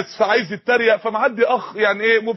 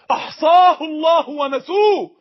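tearful cry; 5 semitones higher, 3 dB louder, slower than usual. Real, not acted. Preacher to congregation, crying out the verse with breaking voice.

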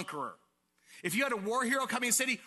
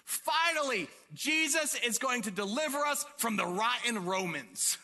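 high, triumphant crowd voice; excited; 5 semitones higher than usual. Acted. Preacher voices oppressed people expecting victory over Rome, excited. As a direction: exult like the cheering crowd. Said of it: "they were so excited 'cause it's like".

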